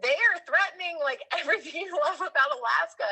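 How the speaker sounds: high, fast indignant retelling; angry outburst. Retold or imitated. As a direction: fire it back, outraged and quick. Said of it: "I personally was angry because I was like".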